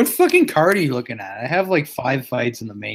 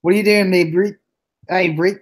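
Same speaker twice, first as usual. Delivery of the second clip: imitated New Zealand lilt, slightly higher; Kiwi accent; 4 semitones higher than usual. Friend joining the band's bit in a Kiwi accent. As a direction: echo it in mock Kiwi. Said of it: "Kiwi accent".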